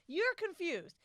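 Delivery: loud, slow mocking sneer; mocking taunt. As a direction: jeer at her out loud. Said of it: "all I could think was".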